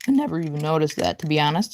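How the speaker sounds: slightly cracking voice. Real, not acted. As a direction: voice cracking now and then. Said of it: "Sorry, my voice is cracking".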